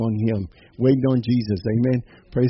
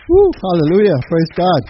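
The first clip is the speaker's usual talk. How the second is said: higher and louder, cheering hallelujah; joyful shout; 4 semitones higher, 5 dB louder than usual. Real, not acted. Pastor rejoicing with the congregation at the close, joyful shout. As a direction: let the praise burst out.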